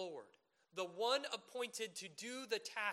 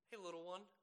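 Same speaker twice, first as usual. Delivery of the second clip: gentle endearment; 4 dB quieter, faster than usual. Retold or imitated. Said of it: "you bend down and you say".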